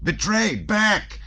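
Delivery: high, urgent warning cries; shouted alarm. A narrator's reading. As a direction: shout the alarm in short bursts. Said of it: "shouted Dolokhov".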